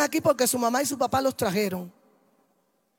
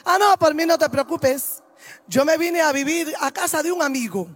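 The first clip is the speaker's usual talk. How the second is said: rising to a louder, higher defiant shout; defiant son; 5 semitones higher, 4 dB louder than usual. Retold or imitated. Son telling his mother he won't obey, building to a shout. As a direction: throw it back at mom, building anger.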